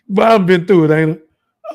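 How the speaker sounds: half laughing, half choked; laughing through it. Real, not acted. Telling the crowd what he survived, laughing ruefully. Laughing at his own ordeal.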